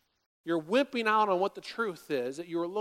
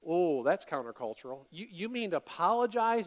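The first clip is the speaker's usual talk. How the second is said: mock shocked listener; 3 semitones lower than usual.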